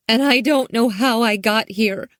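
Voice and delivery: put-on high girl voice fighting tears; a girl close to crying; holding back tears. A narrator's reading. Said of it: "trying to stem the tide of tears".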